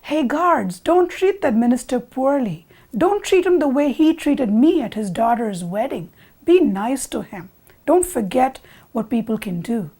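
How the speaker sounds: lightly acted call from above. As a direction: call out instructions to men below. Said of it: "he calls down to the guards".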